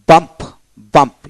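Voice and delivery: "বাম্প" said alone, punched, with an a vowel; pronunciation demo. Shown as a demonstration. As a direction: model "বাম্প" twice, u sounded as a. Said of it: "ইউ উচ্চারিত হবে".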